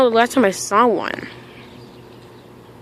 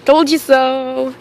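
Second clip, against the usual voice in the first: smug; 4 dB louder, much slower than usual. Real, not acted. Smug after his prediction comes true.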